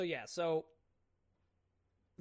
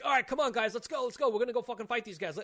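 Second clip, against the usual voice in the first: rallying call; 5 semitones higher, 4 dB louder, faster than usual. Retold or imitated. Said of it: "He's like".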